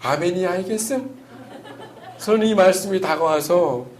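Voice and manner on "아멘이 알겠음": laughing Hamgyong dialect question with a rise. Pretend. Pastor teasing the congregation in Hamgyong dialect, laughing. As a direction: chuckle through the Hamgyong tag question. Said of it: "함경도 버전".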